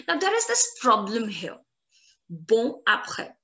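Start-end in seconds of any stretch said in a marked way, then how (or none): 2.3-3.3 BON, a break, then APRÈS without linking; pause between words. Shown as a demonstration. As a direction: split BON from APRÈS, the N left silent. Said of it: "I'm having a pause in between".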